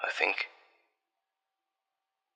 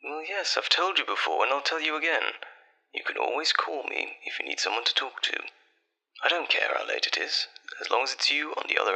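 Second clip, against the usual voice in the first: soft, higher-pitched, gentle comfort; tender reassurance; 5 semitones higher, 5 dB quieter than usual. Acted. Boyfriend to girlfriend calling late at night, tenderly reassuring. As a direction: reassure lovingly in a soft, lifted voice.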